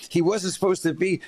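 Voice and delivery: mock her rising panic; imitating the flustered attorney. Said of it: "she said".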